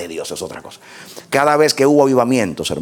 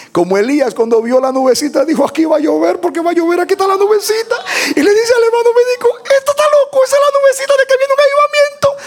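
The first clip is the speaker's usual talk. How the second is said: building excitement; 4 dB louder than usual. Retold or imitated. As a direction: pitch climbs steadily to a very high cry. Preacher acts out the excited discovery. (emoción creciente hasta el grito agudo)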